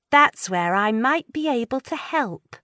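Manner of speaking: hint at a secret plan; Lou's voice. Acted. Lou conspiratorial.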